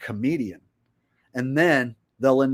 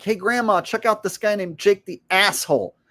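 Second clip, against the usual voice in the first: cheerful friend voice; 8 semitones higher, 4 dB louder than usual. Retold or imitated. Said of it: "if you're like".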